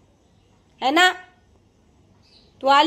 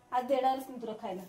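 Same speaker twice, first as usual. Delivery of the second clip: quick and much softer; muttered threat; 11 dB quieter, faster than usual. Real, not acted. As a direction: grumble the refusal under your breath. Muttered threat after the quarrel. (पुटपुटत धमकी)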